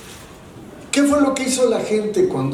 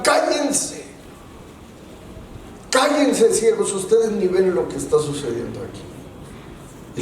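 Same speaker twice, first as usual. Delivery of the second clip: crowd shouting; 3 dB quieter than usual. Retold or imitated. Crowd silencing the blind men, mock shout. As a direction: yell them down, then drop off. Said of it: "Les gritaban".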